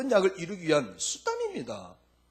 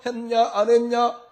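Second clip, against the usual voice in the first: nagging husband; 5 semitones higher, 6 dB louder than usual. Acted. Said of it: "옛날 남편 같으면 매일 잔소리를".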